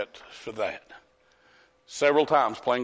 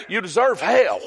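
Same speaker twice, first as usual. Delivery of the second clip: higher, emphatic preacher's rebuke; 5 semitones higher, 4 dB louder than usual. Real, not acted. Preacher answers society's claim of deserving, emphatic rebuke. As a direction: drive it home, landing on hell.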